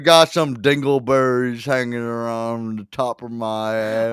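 slow, drawn-out put-on voice; hammy character parody. Host parodying a crude Christmas boast, slow put-on voice. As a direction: drag the crude line out like a cartoon heavy.

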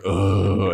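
mock eye-rolling groan; exasperated groan. Construction worker vampires fed up with the whining, mock exasperated groan. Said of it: "all roll their eyes and like".

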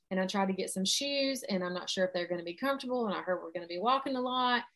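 anxious inner chatter speeding up; rushed overwhelm. Shown as a demonstration. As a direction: pile up the worries breathlessly. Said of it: "the story I'm telling myself".

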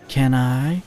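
lightly coaxing, rising question; sweet purr. Acted. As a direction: ask sweetly, like a pleading kitten. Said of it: "she purred sweetly".

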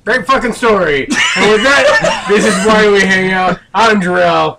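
shouted sign-off. Acted. Shouted show sign-off over the story.

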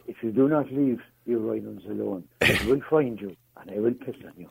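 low, measured action-hero threat; Liam Neeson. Shown as a demonstration. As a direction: do a mock-menacing film tough guy, pitched low. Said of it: "I feel like doing my Liam Neeson impression".

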